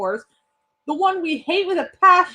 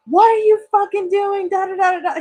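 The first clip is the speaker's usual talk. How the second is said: mock angry outburst, pitched up; retold cursing out; 4 semitones higher than usual. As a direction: imitate a guest cursing people out. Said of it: "he's cursing us out".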